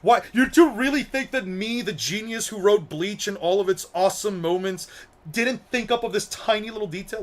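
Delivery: lightly acted smug genius, chuckling at first; smug Kubo. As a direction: play a hint of a self-satisfied author scoffing at doubters. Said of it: "with, like, the most smug face".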